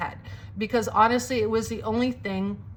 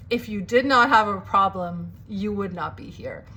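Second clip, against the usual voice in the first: put-on deliberate, emphatic African-accented retort; imitated African accent. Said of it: "thickest African accent I've ever heard".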